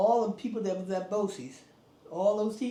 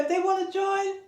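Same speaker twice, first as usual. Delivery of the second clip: principal welcoming; 12 semitones higher, 4 dB louder than usual. Retold or imitated. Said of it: "He said".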